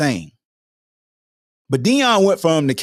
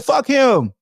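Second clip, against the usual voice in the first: mock fan shout; 8 semitones higher than usual. Fickle fan turning on the player, mock shout. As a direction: yell it like a fed-up fan. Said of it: "they be like".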